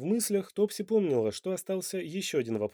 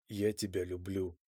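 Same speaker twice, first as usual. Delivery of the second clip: lower, softer confession; man confessing love, softer and lower; heartfelt sincerity; 6 semitones lower, 7 dB quieter than usual. Acted. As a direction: say it simply and sincerely. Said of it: "с берущей за душу искренностью".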